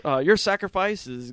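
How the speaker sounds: high, lightly voiced earnest salute; mock solemn rebels. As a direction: play pompous revolutionaries. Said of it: "they're like".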